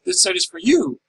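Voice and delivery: "you" stressed with a jump up in pitch; emphasis. Shown as a demonstration. Teacher reading out a line marked for emphasis, stressed on "you". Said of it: "That's said with emphasis".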